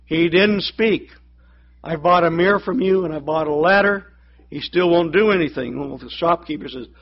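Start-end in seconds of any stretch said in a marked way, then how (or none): 0.1-5.8 complaining. Retold or imitated. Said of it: "goes back complaining".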